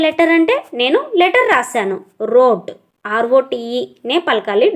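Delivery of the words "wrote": Wrote said as rote with no w sound; silent w. Shown as a demonstration. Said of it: "డబ్ల్యూ silent అనమాట". (Wrote లో w పలకకుండా రోట్ అని)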